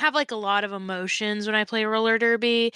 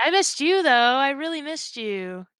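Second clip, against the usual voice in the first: teasing sing-song; 4 semitones higher than usual. Retold or imitated. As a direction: tease her like a rival you missed. Teasing rival on the line.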